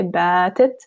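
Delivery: "Batit" whispered, alif still long. Shown as a demonstration. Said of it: "emphasizing the length of alif".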